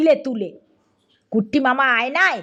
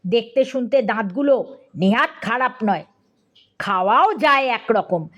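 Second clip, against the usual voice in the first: ordinary delivery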